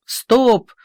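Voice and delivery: loud high shouted stop; driver bellowing. A narrator's reading. Driver roars at his assistant, loud yell. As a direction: roar it at the assistant. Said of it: "орёт машинист помощнику".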